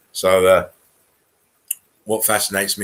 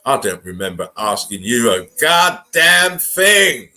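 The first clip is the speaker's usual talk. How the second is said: slow, loud, contemptuous put-down with a laugh in it; scornful retort; 3 semitones higher, 4 dB louder, slower than usual. Retold or imitated. Snapping back slowly at a sheeple who chimes in. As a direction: spit it back at the know-it-all.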